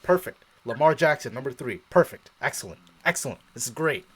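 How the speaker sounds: building up to loud, happy cheering; hyping yourself up over the picks; gleeful excitement. Retold or imitated. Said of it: "I'm like".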